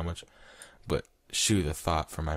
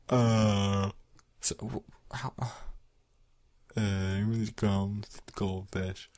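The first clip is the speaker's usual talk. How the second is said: slow, halting, slightly raised gormless voice; dumbstruck goldfish; 4 semitones higher, much slower than usual. Acted. Reader mimics a dumbstruck goldfish, halting. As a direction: stammer and stretch it out dopily.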